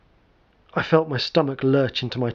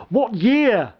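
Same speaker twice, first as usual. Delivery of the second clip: calling after him; 8 semitones higher than usual. Acted. Calling after fleeing man.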